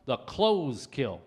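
slow, weighted punchline. Shown as a demonstration. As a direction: land the reveal slowly. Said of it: "You know what I'm worried about?".

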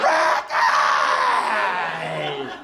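loud possessed howl, drawn out; Exorcist-style demonic scream. Retold or imitated. At the bottom of the stairs, demonic screaming. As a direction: scream the name like someone possessed. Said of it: "screaming like the Exorcist".

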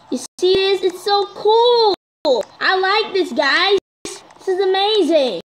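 high-pitched marvelling; excited delight. Real, not acted. Delighted at seeing the event sign.

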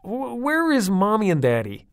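high, loud stammering dad; flustered question. A narrator's reading. Father asking the children, flustered and loud. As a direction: stumble in disbelief.

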